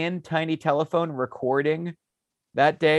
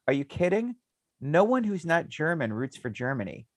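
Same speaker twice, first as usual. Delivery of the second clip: laughing incredulous Croatians; 4 semitones higher than usual. Retold or imitated. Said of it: "they're like".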